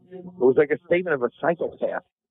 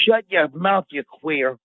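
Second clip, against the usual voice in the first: mock outrage; 3 semitones higher, much slower than usual. Real, not acted. Co-host cutting off his friend's question, mock outrage. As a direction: shut him down in raised-pitch indignation.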